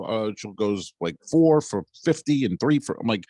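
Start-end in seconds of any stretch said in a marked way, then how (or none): 1.3-3.0 high, brisk sales patter; mock vendor pitch. Imitating the cigar lady selling, higher and brighter. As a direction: rattle off the deal like a hawker.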